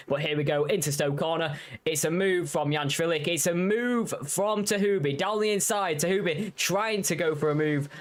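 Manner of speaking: rising call on the overtake; excited race call. Real, not acted. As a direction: build up as the move happens. Overtake called live.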